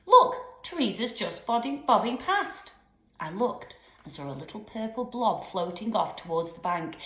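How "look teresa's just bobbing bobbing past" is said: excited. Acted. Spotting the doll excitedly.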